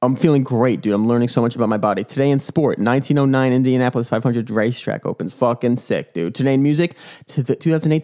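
usual speaking voice

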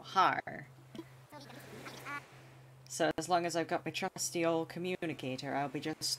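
a light put-on pirate accent, close to his own voice. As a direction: lightly play a hammed-up pirate captain with a pirate accent. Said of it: "I can't do that accent".

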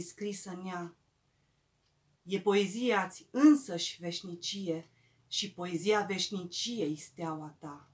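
reverent, measured ode; poetry recital. Acted. Poet addressing Eminescu in verse, reverent measured recital. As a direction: recite as homage, settling at the end of each phrase.

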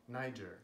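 Niger said as NY-jer, the English way; English pronunciation. Shown as a demonstration. Introducing a country called Niger, English pronunciation. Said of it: "people were calling it Niger".

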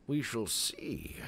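slow, mock-mysterious whisper; ominous whisper. Player doubting whether the sequel is good, ominous whisper. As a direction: whisper it slowly, full of mock suspense.

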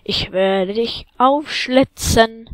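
slow, drawn-out playful threat; slow teasing villain threat; mock menace. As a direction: threaten the slime slowly, half-joking. Menacing a slime.

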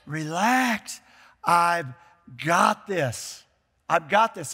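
steady, firm and calm, stress on got; calm reassurance. Retold or imitated. God reassuring his people amid the crisis, calm and firm. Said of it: "And God is saying".

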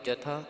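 ਜਥਾ with an aspirated "th"; "ja-thaa", the t aspirated. Shown as a demonstration. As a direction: breathe out on the th of ਜਥਾ. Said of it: "ਇੱਥੇ ਥੱਥੇ ਦੀ ਆਵਾਜ਼ ਆਵੇਗੀ".

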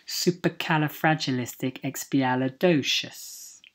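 "Supercalifragilisticexpialidocious" measured out carefully, syllables distinct; careful model pronunciation. Shown as a demonstration. Teacher modelling a fun word from Mary Poppins, careful and measured. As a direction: take your time over every syllable of "Supercalifragilisticexpialidocious".

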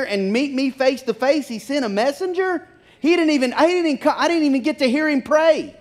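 lightly voiced indignant Naaman; offended Naaman. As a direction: complain like a proud man who feels slighted.

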